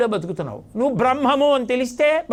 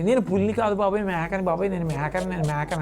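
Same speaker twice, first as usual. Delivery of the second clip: pleading cub, fading; 3 semitones lower than usual. Acted. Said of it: "అంటాను".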